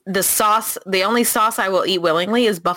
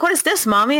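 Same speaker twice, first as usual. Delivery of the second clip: put-on kid voice; 8 semitones higher than usual. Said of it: "He's like".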